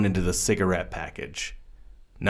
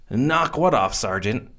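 put-on higher, unsure young voice; hesitant; 4 semitones higher than usual. A narrator's reading. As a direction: ask it timidly. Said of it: "Woodward asked hesitantly".

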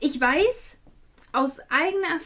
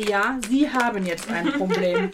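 slow, louder, pointed retort; retold menacing comeback; 5 dB louder, slower than usual. Customer quotes her comeback to the dealer, slow and menacing. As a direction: turn it back on him, drawn out word by word.

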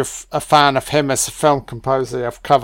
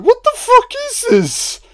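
mock Hans. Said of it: "Hans is like".

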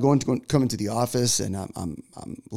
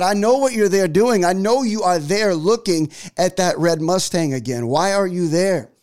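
higher, mildly scolding mock-wife voice; accusing wife, imitated; 4 semitones higher than usual. Wife catching husband at the dealership, imitated accusing tone. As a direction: call him out, pitched up and emphatic. Retelling wife's accusing reply.

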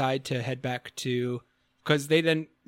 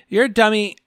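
emotional scolding; 4 dB louder than usual. Retold or imitated. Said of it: "very emotional scene where Nanamo's like".

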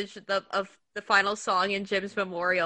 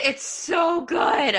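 drawn-out slow gush on so good; gushing praise; 5 semitones higher, much slower than usual. Real, not acted. Praising the song, slowly gushing. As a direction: stretch it out, raving. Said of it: "Can I just praise that for a minute?".

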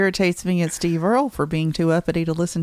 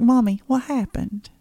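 slow, higher-pitched mock child voice; imitating own kid; 5 semitones higher, slower than usual. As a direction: play a puzzled kid asking Mommy. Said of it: "my kid's gonna be like".

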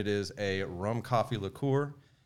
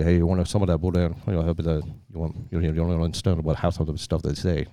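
imitating a local Cajun accent; a playful mock of Cajun neighbours' speech; 4 semitones lower, 6 dB louder, faster than usual. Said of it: "so everybody talks like this".

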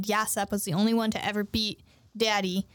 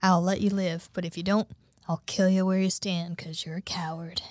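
gunman's ultimatum; 4 semitones lower than usual. Acted. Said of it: "and then he's like".

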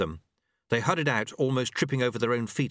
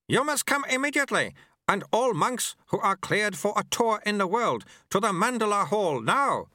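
higher, urgent summons; breathless acolyte; 11 semitones higher than usual. A narrator's reading. Acolyte summons all cleared monks, urgent. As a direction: rush the order out.

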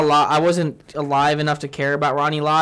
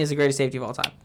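hushed whispered claim; whispering; 7 dB quieter, much faster than usual. Real, not acted. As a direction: whisper it like a secret.

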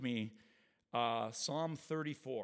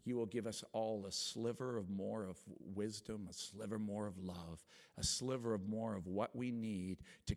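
earnest spoken prayer to the Lord; closing prayer before the testimony. Acted. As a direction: pray it over the congregation. Opening prayer.

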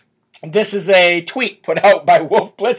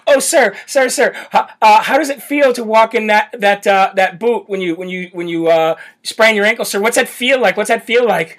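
mock fawning reporter; 2 semitones higher than usual. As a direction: play a fawning reporter asking. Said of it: "mock reporter questions".

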